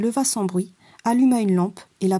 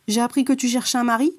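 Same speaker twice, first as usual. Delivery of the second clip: contemptuous; 3 semitones higher, faster than usual. Acted. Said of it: "lui demanda-t-elle avec mépris".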